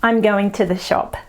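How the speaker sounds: "I'm going to the shop" run together as one word; one big word. Shown as a demonstration. Teacher repeating the squashed Aussie form. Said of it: "it's just like one big word".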